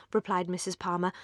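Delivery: ordinary delivery, nothing marked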